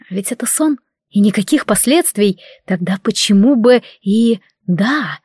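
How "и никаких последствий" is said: ordinary delivery, nothing marked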